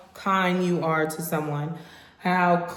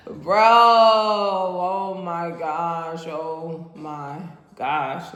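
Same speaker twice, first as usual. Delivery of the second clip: stunned oh my gosh; much slower than usual. Real, not acted. Reacting to drink.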